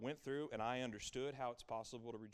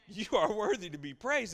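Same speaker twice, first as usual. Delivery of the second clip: loud worshipful cry; 8 semitones higher, 9 dB louder than usual. Retold or imitated.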